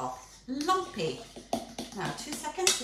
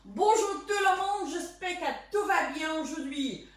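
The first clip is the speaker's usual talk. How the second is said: French; 3 semitones higher, 4 dB louder than usual. Pretend. Greets bakers in showy French.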